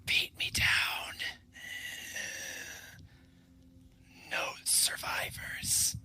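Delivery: slow breathless whisper from the dead; barely a breath, slow and hollow; ghostly whisper. Acted. Dead body answers in whisper.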